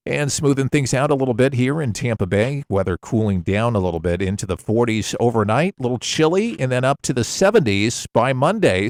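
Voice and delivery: easygoing radio DJ patter; casual DJ voice. Shown as a demonstration. Radio host demoing casual DJ weather patter. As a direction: chat it out like a local DJ on air. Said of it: "just that casual voice".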